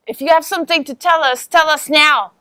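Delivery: mildly threatening demand; intimidating. Acted. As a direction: press them for an answer. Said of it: "I use intimidation".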